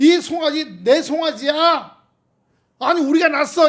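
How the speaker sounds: insistent, pressing delivery.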